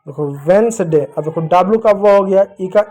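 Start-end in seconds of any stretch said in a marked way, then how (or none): 0.5-1.0 वेडनेसडे as vens-day; silent D. Shown as a demonstration. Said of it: "डी silent होगा". (डी silent रखकर "वेडनेसडे")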